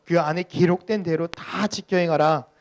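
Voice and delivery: loud, slow, measured verse reading; scripture reading. Real, not acted. Pastor leading the congregation in reading Joshua, measured scripture reading. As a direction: read the verse out slowly and firmly.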